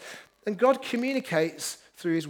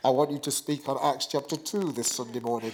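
much lower, deep mock voice of God from above; booming voice from the sky; 8 semitones lower, 4 dB quieter than usual. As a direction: boom down like a voice from heaven. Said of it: "this booming voice from the sky".

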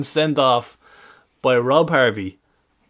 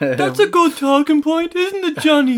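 mock pundit voice; 3 dB louder than usual. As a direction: ham up a solemn studio host.

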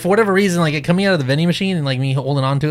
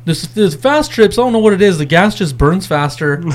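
mock clueless friend. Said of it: "He's all".

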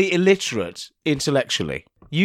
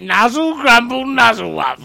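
silly nonsense voice; 4 semitones higher, 4 dB louder than usual. Pretend. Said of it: "Now say something stupid".

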